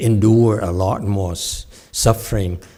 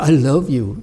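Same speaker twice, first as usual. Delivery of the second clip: sweet bodhisattva; 4 semitones higher than usual. Retold or imitated.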